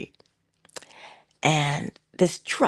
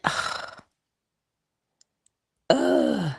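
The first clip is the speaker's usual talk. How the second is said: weary groan. Retold or imitated. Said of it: "And I said".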